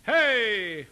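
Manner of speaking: high, loud held hail; calling voice. Shown as a demonstration. Teacher giving singers a belt to copy, calling out. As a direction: call out long and falling. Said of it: "it's in your calling voice".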